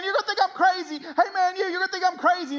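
frantic, high redneck yell; hammed-up redneck, loud and wild; redneck stranger. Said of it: "the most redneck human being you've ever met".

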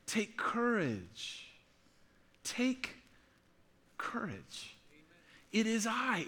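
soft, slow, tender comfort; gentle reassuring Jesus. Acted. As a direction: hush it like a calming friend in the storm.

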